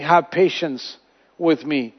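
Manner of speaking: pleading. Retold or imitated. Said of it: "he cried out and saying".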